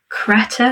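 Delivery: Crete said tentatively in two syllables; hesitant attempt at saying Crete; unsure pronunciation. Real, not acted. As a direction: try out Crete as "Cret-eh", unsure of it. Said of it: "I don't know if I'm saying that correctly".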